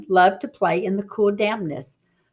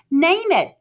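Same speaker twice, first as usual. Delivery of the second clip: demanding; 7 semitones higher, 3 dB louder than usual. Acted. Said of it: "she was demanding".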